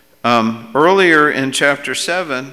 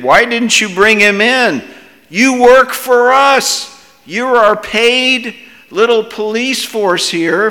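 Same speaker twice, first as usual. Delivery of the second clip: loud, high-pitched scolding of subordinates; angry demand; 9 semitones higher, 7 dB louder than usual. Acted. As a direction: berate them like furious bosses, raised voice. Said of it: "leading priests and Pharisees demanded".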